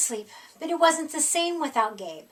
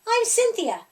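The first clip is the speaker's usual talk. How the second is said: put-on indignant girl monster; 4 semitones higher, 6 dB louder, faster than usual. A narrator's reading. Cynthia confronts the boy.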